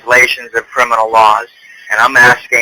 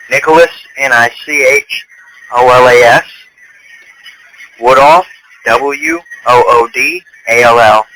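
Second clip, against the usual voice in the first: dictating. Real, not acted. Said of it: "Let's go with name first".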